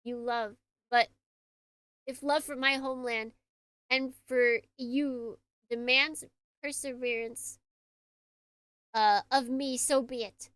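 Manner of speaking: measured, earnest letter reading; letter read aloud in character. Acted.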